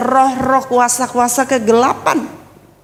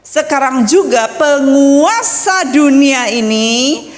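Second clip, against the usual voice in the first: slow, deliberate Bible reading; measured, solemn recitation; scripture reading; slower than usual. Real, not acted. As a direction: read the verse out with weight on each word. Reads scripture aloud.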